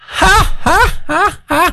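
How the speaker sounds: high, scornful, mocking laugh, acted. Speaker retells what a woman said after serving cake, imitating a mocking laugh. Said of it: "Tem que risada debochada dessa mulher da piada".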